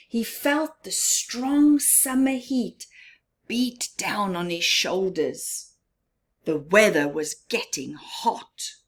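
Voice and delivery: put-on gentle storybook reading for children, half-whispered in places; story narration. A narrator's reading.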